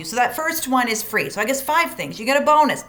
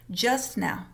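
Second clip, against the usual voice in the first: calm facts; 2 semitones lower than usual. Shown as a demonstration. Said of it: "memorize the words".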